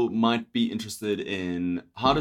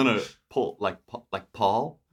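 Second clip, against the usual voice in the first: "Paul" with the Canadian ah vowel; Canadian accent. Retold or imitated. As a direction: say "Paul" as "Pahl", Canadian style. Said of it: "say your name in a Canadian accent".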